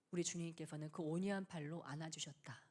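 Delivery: hushed, tender whisper. Retold or imitated. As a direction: whisper it like a grateful prayer. Quoting Carey's humble confession. (속삭이는 고백)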